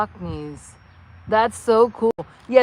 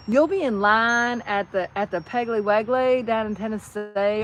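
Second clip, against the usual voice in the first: Tennessee accent. Shown as a demonstration. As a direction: stretch it like a Tennessee local. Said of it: "that is Tennessee".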